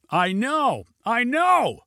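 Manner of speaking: high, rising insistence; urgent shouting. A narrator's reading. Passenger confirms warning to pilot, urgent shout.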